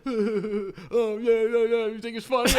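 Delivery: high, hammed-up yelling impression; mock angry driver. Imitating the driver who was laughed at, hyped-up mockery. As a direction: mimic the hyped-up driver jeering.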